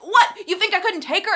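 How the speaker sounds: high, loud, offended snap; indignant retort. Retold or imitated. Tris snaps at Will who pulled her off: indignant. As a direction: challenge him, stung.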